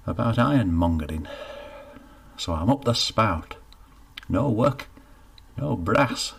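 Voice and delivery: a lightly voiced down-on-his-luck labourer, rueful; Geoffrey explaining to the baker why nobody will hire him, rueful; glum northern working man. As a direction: tell your woes plainly, a bit sorry for yourself.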